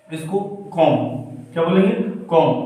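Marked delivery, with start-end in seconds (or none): 2.3-2.5 "कॉम" ending on m, no b; silent B. Shown as a demonstration. Teacher drilling the word comb, silent B in "कॉम". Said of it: "बी का उच्चारण हम नहीं करेंगे".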